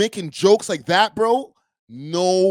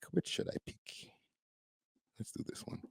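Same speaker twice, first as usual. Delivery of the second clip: breathy aside, barely voiced; murmured under the breath while choosing; whispered; 21 dB quieter, faster than usual. Real, not acted. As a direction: whisper the question to yourself. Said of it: "muttering while choosing a clip".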